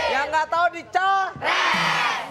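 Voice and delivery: rally the crowd into the game; hyped announcement. Real, not acted. Host hypes up the game segment. (seruan pembawa acara bersemangat)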